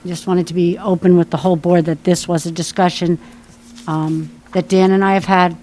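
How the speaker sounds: talking through a face mask; muffled through a mask. Real, not acted. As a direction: speak muffled behind a mask. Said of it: "It sounded like muffled".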